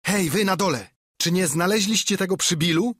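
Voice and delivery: high loud call down below. A narrator's reading. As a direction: yell to the men downstairs. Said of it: "wołał znów ślepiec". (ślepiec woła na dół)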